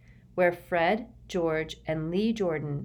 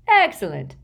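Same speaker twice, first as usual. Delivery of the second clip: louder, pleased exclaim; happy; 3 semitones higher, 9 dB louder than usual. A narrator's reading. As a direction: cheer it out. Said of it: "said Fred happily".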